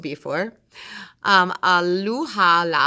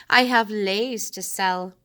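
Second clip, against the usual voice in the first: sweet seller voice; 3 semitones higher than usual. Acted. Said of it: "called sweetly".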